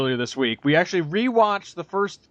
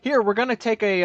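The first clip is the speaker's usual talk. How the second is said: mock eager exec; 5 semitones higher than usual. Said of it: "So it's like".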